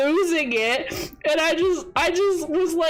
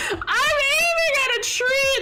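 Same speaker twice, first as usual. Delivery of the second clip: laughing through words; 13 semitones higher than usual. Real, not acted.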